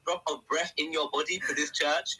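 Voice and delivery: loud, strained cry of a preacher's demand; mock preacher shout. Speaker mimicking the church demanding every breath, loud cry.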